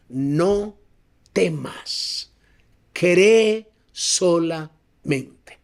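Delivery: drawn-out words with weighty pauses; slow, solemn command. Acted. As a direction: let each word land slowly and deliberately. Preacher voices Jesus, solemn and spaced.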